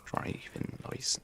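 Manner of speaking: hammed-up Texan "yeehaw" American accent; mock American accent. British streamer joking about Texas, mock American accent. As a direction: attempt a Texas accent, faltering at the end. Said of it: "driving license in an American accent".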